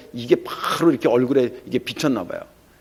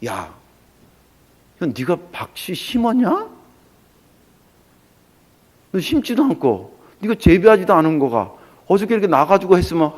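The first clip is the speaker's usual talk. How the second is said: higher-pitched, incredulous rebuke; acted scolding; 4 semitones higher than usual. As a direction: take him to task, lightly playing God. God scolds the sulking prophet.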